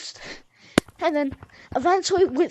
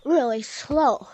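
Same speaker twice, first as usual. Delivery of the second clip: slow; slower than usual. Shown as a demonstration. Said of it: "watch this".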